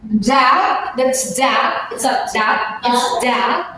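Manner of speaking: Da and that's da, voiced dental th clipped to a quick da; voiced th drill. Shown as a demonstration. Teacher drilling voiced th syllables for the class. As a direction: tap the voiced th into da each time. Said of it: "let's have the example given".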